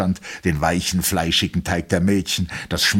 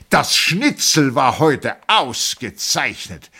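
flustered; 8 semitones higher, 4 dB louder, slower than usual. A narrator's reading. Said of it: "dachte er aufgeregt".

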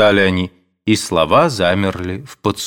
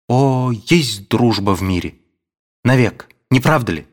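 ardent. A narrator's reading. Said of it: "говорил пылко Александр".

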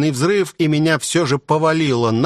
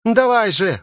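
громкий высокий крик; прокричи с силой; 9 semitones higher than usual. A narrator's reading. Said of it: "прокричала Айрис". (громкий призыв Айрис)

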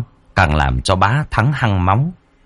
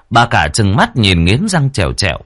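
ordinary delivery, nothing marked

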